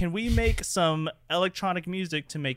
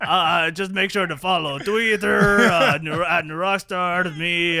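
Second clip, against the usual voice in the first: full Strong Bad; 3 semitones higher than usual. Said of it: "You went full Trogdor right now".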